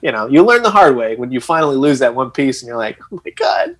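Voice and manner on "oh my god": high, startled "oh my God"; sudden shocked realization; panicked gasp. Retold or imitated. Panicked retelling of lost piece.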